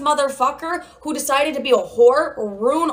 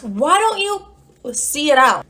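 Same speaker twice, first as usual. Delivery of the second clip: coaxing; 4 semitones higher, slower than usual. Retold or imitated. Imagined supporter coaxing her.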